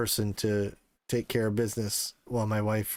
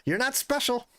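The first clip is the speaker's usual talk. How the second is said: mocking other parents; 13 semitones higher than usual. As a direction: tease like bored fellow parents. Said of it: "They're like".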